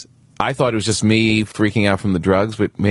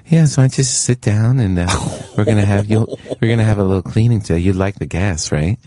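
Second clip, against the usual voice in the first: lightly voiced old gas-loving dentist; a hint of a laid-back old dentist; casually coaxing patient, lightly imitated; imitating old dentist. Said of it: "he talked really like this".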